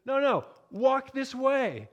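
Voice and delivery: high, slow comic Igor voice; Igor correcting. Retold or imitated. Igor hands back the cane to Frankenstein, high slow comic voice. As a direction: patiently correct him in a silly servant voice. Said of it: "kind of shakes his head and he says".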